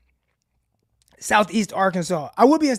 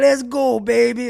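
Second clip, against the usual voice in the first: mock Cajun accent, higher and louder; slipping into Cajun; 4 semitones higher, 7 dB louder, slower than usual. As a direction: catch yourself doing the Cajun catchphrase. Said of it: "I catch myself talking like him".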